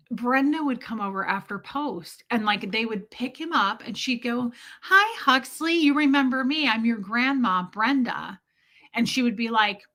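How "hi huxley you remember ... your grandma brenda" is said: lightly imitated grandma cooing at a newborn; talking to a baby. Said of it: "this is how they would talk to a baby".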